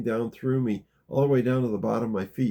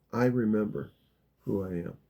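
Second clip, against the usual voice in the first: gentle affirmation, sinking low at the end; loving; 3 semitones lower, 4 dB quieter than usual. Shown as a demonstration. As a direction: say it lovingly, settling down softly on the last words. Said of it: "say it with love".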